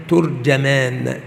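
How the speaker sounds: ترجمان said slowly as "turjamaan"; u on ت, then a on ج in ترجمان; damma ta, fatha jim. Shown as a demonstration. Teacher showing students the third form, ترجمان as turjamaan. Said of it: "بضم التاء وفتح الجيم".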